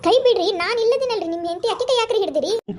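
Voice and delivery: loud, high start easing slightly; indignant outburst. Acted. Objecting to someone holding the wrong hand, indignant. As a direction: object sharply, outraged.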